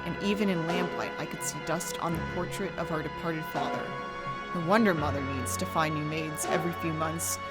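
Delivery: hushed, eerie storytelling. A narrator's reading. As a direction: narrate a gothic horror tale. Horror story narration with music.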